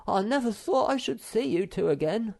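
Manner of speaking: joyful reunion cry; relieved Moomin. A narrator's reading. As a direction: gush with relief. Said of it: "he exclaimed".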